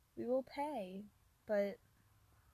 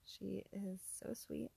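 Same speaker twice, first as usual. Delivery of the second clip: soft, whispered doting; tender whisper; 7 dB quieter than usual. Real, not acted. Doting on her friend's baby in a tender whisper.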